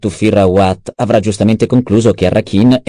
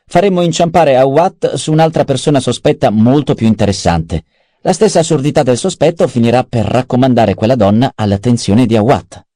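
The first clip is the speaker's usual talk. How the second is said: a slightly higher, lively voice for Peter's lines; lightly voiced schemer; 6 semitones higher than usual. Adviser briefing the baron on the duke's possible escape, lightly voiced. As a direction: lay out the options with lifted pitch.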